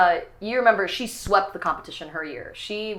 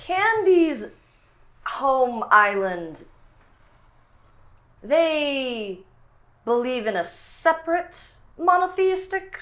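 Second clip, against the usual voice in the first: higher, prim disapproval; sponsor voice; 4 semitones higher than usual. Acted. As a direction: look down on the other faith.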